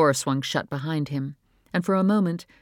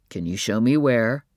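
calm; 4 semitones lower, 4 dB louder than usual. A narrator's reading. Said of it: "using his calmest voice".

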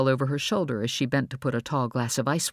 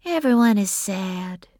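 gentle, slow, higher-pitched line; soft; 6 semitones higher, 4 dB louder than usual. A narrator's reading. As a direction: say it gently, drawn out. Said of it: "Bree said softly".

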